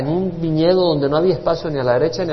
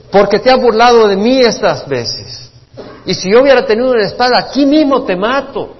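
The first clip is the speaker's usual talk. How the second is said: angry threat; 7 semitones higher, 8 dB louder than usual. Acted. Balaam threatens the mule.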